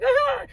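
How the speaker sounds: high frustrated "ah", re-enacted; high-pitched mock cry of frustration. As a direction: mimic a frustrated, tearful wail. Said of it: "I was frustrated and I was like".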